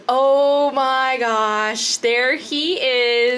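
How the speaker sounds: put-on slow, awed little-girl gasp; excited kid. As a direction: gape in wonder like a child. Child gawking excitedly at Santa.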